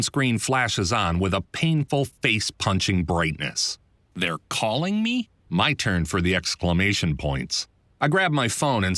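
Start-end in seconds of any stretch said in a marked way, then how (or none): 4.1-5.3 startled disbelief. Real, not acted. Woken narrator seeing the client calling at midnight, surprised. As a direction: pitch jumps way up in sleepy disbelief.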